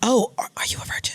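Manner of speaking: hushed whisper. Asking another speaker a personal question mid-conversation: whispering. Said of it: "I whispered it like".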